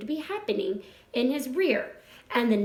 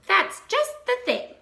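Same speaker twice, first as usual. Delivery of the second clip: high, pleased little pig; a young pig thrilled with his find; delighted piglet; 9 semitones higher than usual. A narrator's reading. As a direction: Wilbur pleased with the rat's string, high and delighted. Wilbur delighted with string.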